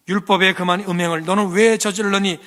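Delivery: loud, high accusation; accusing demand. Retold or imitated. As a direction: confront the woman harshly. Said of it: "따지고".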